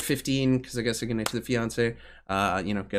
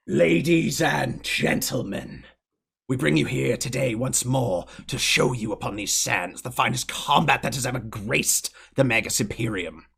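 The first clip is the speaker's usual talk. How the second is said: booming announcer; 2 semitones higher than usual. Acted. Grand mage addresses the crowd, booming. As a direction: proclaim to the whole arena. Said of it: "you hear his voice just being amplified".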